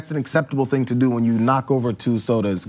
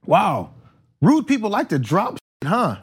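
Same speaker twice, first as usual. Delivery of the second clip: higher, loud-ish fake-friendly jab; sweetly passive aggressive; 6 semitones higher than usual. Shown as a demonstration. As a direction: say it to him, about him. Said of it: "a nice passive aggressive, loud voice comes in".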